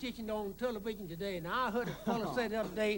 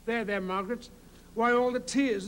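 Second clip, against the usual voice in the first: a hint of James Mason. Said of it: "and he says".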